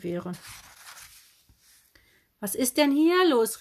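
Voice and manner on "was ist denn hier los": high, loud shocked cry; shocked call. Acted. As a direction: burst out at the mess. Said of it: "rief sie".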